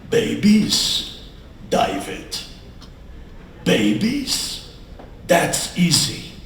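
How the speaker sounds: lightly put-on German accent; a hint of a confident German doctor. German doctor reassuring a hopeful couple, light German accent. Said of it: "with a German accent".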